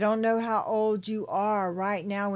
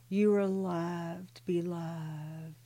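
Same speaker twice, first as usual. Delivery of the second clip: tender reassurance; slower than usual. Real, not acted. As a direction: comfort them gently.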